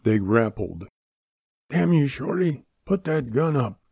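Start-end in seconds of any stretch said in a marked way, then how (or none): 1.7-3.8 sharp, higher angry order; savage. A narrator's reading. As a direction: bark it at him fiercely. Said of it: "Cac said savagely".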